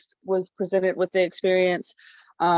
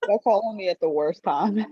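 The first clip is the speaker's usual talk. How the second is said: talking through a mouthful of food; speaking while chewing; mouth full. Real, not acted. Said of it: "With food in your mouth?".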